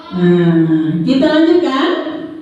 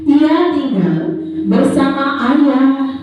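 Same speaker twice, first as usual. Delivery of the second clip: put-on reading to a toddler; slower than usual. Reads a story to the children.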